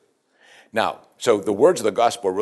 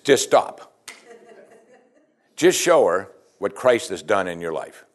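laughing; 3 semitones lower, slower than usual. Real, not acted. Laughing through advice.

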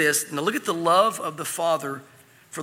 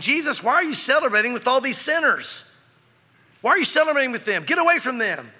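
higher-pitched mock scolding; indignant Pharisee; 5 semitones higher than usual. Pharisees challenging Jesus over the sinners, indignant.

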